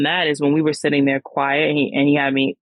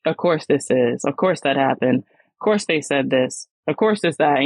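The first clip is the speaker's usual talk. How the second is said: understated, unimpressed "here we go" delivery; eye-rolling sarcasm. Retold or imitated. Reacting to yet another uncanny coincidence, mildly eye-rolling. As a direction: say it as if mildly rolling your eyes. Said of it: "like I was rolling my eyes".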